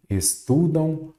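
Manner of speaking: "Estudam" drawn out slowly with a nasal final sound; nasal ending. Shown as a demonstration. Teacher showing students the nasal sound, "Estudam" said slowly with a nasal ending. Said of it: "Olha o som nasal aí".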